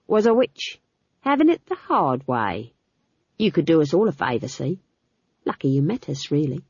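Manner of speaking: lightly voiced leering guard; cold, matter-of-fact threat; menacing guard. Guard warns Magrat, leering.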